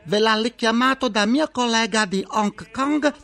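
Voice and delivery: put-on sing-song Chinese-accented phone operator. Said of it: "vi risponderanno con questo sottofondo musicale".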